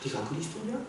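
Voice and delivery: understated taunting challenge; mock dare, lightly acted. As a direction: imitate jeering priests, starting under the breath. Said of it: "조롱하고 희롱하고 있는 것이죠".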